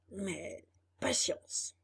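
soft, slow resigned sigh; quiet resignation. Acted. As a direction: let it fade in resignation. Donkey resigns himself.

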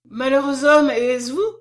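shocked exclamation, rising to a question; stammered shock. A narrator's reading. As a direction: blurt it out at seeing a ghost. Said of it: "balbutia-t-elle".

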